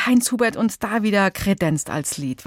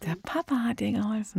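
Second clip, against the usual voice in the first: whisper; 8 dB quieter, faster than usual. Acted. Conspiratorial aside about dad's help.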